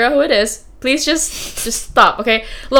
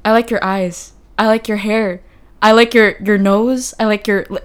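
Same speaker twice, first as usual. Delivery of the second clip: imitating a cheesy flirt. A lightly mimicked guy at the zoo laying on the charm. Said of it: "he just said it in that voice, in that tone".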